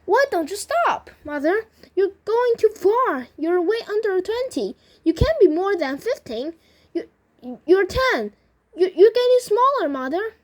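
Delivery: high, loud panicky pleading; acted shrill, frightened daughter; shrill alarm. A narrator's reading. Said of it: "shrill note of a-, alarm in her voice".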